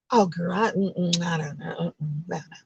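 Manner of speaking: uneasy friend trailing off into silence; doubtful trailing off. Retold or imitated. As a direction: hem and haw, dropping to almost nothing.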